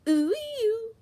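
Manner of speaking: high, loud screamed vocaloid cry; screamed vocaloid-style call. Acted. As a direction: belt it out with all her might. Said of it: "screams with all her might".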